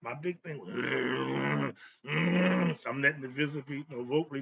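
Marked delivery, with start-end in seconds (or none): 0.7-2.8 put-on showing off his old growl. Shown as a demonstration. Speaker showing listeners how he once growled, mock growl. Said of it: "When, I used to growl".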